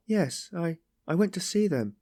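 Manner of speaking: understated, high-pitched tearful voice; weeping. A narrator's reading. Sonia confesses her cruelty, mildly tearful. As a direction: go on as if weeping, voice lifted. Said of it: "she went on, weeping".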